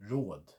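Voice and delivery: Råd said with a long O and a D; Swedish råd. Shown as a demonstration. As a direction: stretch the vowel in Råd. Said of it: "Put that into a word".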